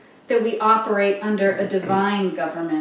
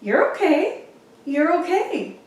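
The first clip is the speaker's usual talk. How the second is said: calm mom; 7 semitones higher than usual. Retold or imitated. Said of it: "just looks and says".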